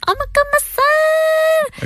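high, slow, stunned mother voice; shocked mom. Retold or imitated. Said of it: "And the mom's like".

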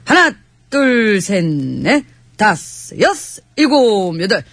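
slow drawn-out marching count; calling cadence. Acted. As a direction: count off the steps slowly. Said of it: "구령은 내가 붙일게요".

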